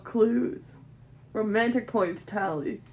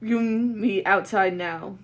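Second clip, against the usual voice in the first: angry demand; 6 dB louder, slower than usual. Acted.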